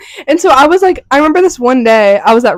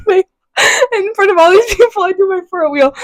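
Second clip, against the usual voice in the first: tearful storytelling through laughter; laughing to tears; 4 semitones higher than usual. Real, not acted. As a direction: push the story out while crying with laughter. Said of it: "I don't know why I'm crying".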